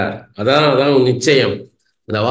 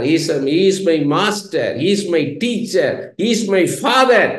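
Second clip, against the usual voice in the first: slow solemn declaration; much slower than usual. Real, not acted. Slow English declaration of names.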